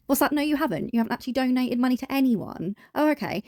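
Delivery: high-pitched sarcastic back-and-forth; mock listening. Mocking Chantal over unmade charity donations, mock listening. Acts out hearing the rival's answer.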